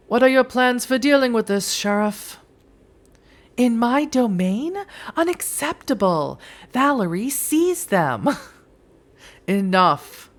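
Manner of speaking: high, imperious demand; commanding prince. Acted. A prince demanding the sheriff act, imperious. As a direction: order them seized.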